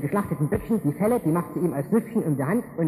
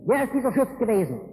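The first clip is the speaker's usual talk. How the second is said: put-on higher, outraged bellow of the old father; the father blowing up at the deceit; mock roar; 5 semitones higher than usual. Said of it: "da brüllt der Vater los". (gespieltes empörtes Brüllen)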